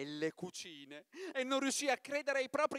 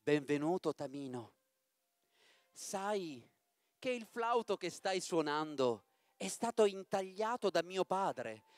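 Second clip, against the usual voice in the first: lightly voiced princess; 3 semitones lower than usual. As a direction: welcome him tenderly, drifting lower. Pamina parla a Tamino. (principessa dolce, appena accennata)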